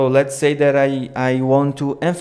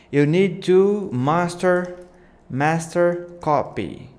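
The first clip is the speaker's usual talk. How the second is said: slow, drawn-out and higher; slow take; 3 semitones higher, slower than usual. Shown as a demonstration. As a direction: stretch each word out for the title animation. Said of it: "too slow".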